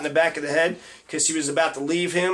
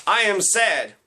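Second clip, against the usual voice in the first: mock sadness; 2 semitones higher, slower than usual. Shown as a demonstration. Comic showing how not to express sadness, mildly mocking. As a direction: stiffly declare sadness, only slightly raised. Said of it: "That isn't how you s-, express sadness".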